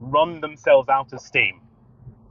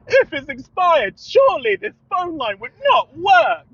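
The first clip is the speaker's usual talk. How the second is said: sarcastic point; 12 semitones higher, 4 dB louder than usual. Retold or imitated. Pressing the sarcastic point on the caller.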